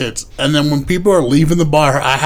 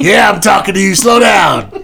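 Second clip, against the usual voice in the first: shouting; 4 semitones higher, 5 dB louder than usual. Retold or imitated. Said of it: "see who says it".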